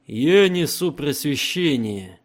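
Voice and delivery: slow, loud, commanding Emperor. Acted. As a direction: speak as an unshakable emperor. Emperor voiced in audiobook.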